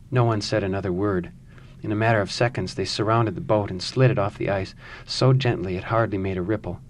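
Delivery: calm, measured storytelling read; story narration. A narrator's reading. Reads the novel passage aloud.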